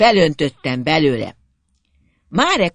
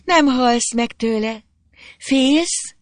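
high-pitched, goading questions; teasing dare; 9 semitones higher, much slower than usual. A narrator's reading. Girl daring the boy to drink, teasing. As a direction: needle him in a raised voice.

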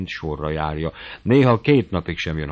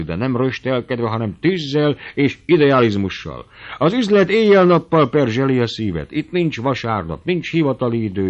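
put-on old uncle preaching business with fire, a little higher and louder; fired-up old uncle; 4 semitones higher, 5 dB louder than usual. Old uncle lecturing his nephew, fervent and raised. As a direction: carry him away with his own zeal.

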